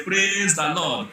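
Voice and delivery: "Praise the Lord" stretched very slowly, every word held; slow mock-jubilant "Praise the Lord"; drawn-out praise. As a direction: drag out "Praise the Lord" like a joyful church shout, slowly. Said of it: "You need to go to church and say".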